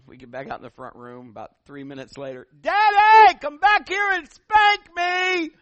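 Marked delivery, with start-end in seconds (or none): 2.6-5.5 put-on high, loud little girl hollering from the bedroom; child calling out. Little girl calling her parents back to spank her, loud and high. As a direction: holler the punchline like a cheeky child.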